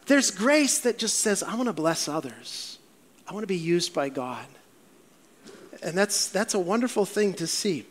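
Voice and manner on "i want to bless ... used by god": quieter, gentle earnest wish; softly sincere. Retold or imitated. A grateful believer quietly wishing to serve, softer. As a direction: say it softly from the heart. Voicing grace's humble wish.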